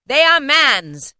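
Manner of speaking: slow, loud, high ghostly voice; echoing ethereal energy being. A narrator's reading. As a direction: speak like a grave spirit. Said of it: "said the spirit".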